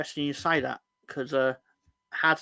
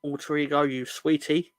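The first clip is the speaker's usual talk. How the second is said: reading a chat message; 2 semitones higher, 5 dB louder, slower than usual. Retold or imitated. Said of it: "from Sam Greenwood".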